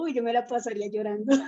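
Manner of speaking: quick, amused quoted aside; quoted thought. Retold or imitated. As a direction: rattle off the joke quickly. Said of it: "Yo estaba diciendo lo mismo". (cita rápida y divertida)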